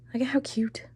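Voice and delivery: whispered cooing over a plant; whispering. Real, not acted. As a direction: breathe it out in a whisper.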